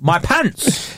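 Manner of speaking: "My pants?" in a light American accent. Shown as a demonstration. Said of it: "It's an American".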